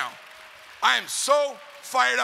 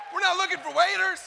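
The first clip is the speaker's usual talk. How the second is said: shouted; 10 semitones higher than usual. Shown as a demonstration. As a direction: blast it out to the crowd. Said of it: "shouted repeat of hushed line".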